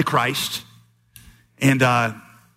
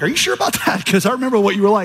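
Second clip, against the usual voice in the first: incredulous; 4 semitones higher, faster than usual. Retold or imitated. Doubtful reply to ministry news.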